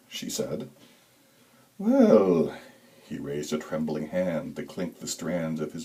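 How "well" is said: a creepy high falsetto ooh; eerie high ooh. A narrator's reading. Creepy Santa spotting a child, high eerie coo. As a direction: coo it high and unsettling like a hungry thing. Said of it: "His voice was a high tenor with breathy overtones".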